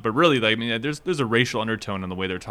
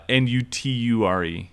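letter by letter; spelled out. Shown as a demonstration. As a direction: spell it out one letter at a time.

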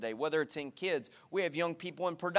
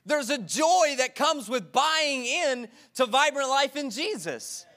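higher, slow, earnest denial; earnest insistence; 5 semitones higher than usual. Retold or imitated. Pastor answering the stranger's question, slow earnest insisting. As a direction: insist sincerely there's no faking. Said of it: "I was like".

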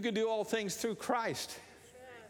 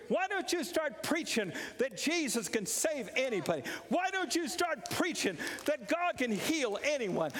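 mock rebuke; 9 semitones higher than usual. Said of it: "grab them by the collar and say".

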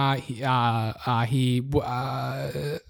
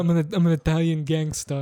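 attempted Italian gangster, coming out as action star; lightly voiced gangster; Sylvester Stallone; 3 semitones lower than usual. Gangster introducing himself, accidental Stallone impression. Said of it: "still Sly Stallone".

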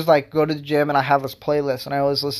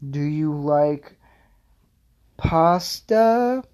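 awkward date question; 2 semitones higher, much slower than usual. Pretend. Nervous second date asking about food, a slow lilting question.

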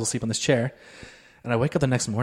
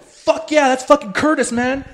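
much higher, pumped cheer; hyped-up fanboy; 12 semitones higher, slower than usual. Retold or imitated. To his buddy about the guitar guy, a high pumped cheer. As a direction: gush like a stoked fan. Excitedly greeting friend about Curtis.

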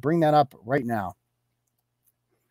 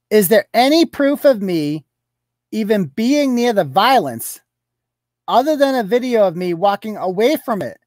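slightly raised, mock-defensive voice; mocking indignant quote; 4 semitones higher, 3 dB louder than usual. Blogger quotes her denial to viewers, mock indignation. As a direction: imitate her protesting her innocence. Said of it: "She says".

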